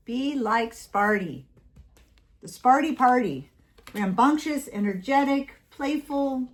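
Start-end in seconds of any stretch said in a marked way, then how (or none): 0.1-1.5 "Be" leaned on and slowed; slower emphatic. Shown as a demonstration. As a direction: drag out "Be like Sparty".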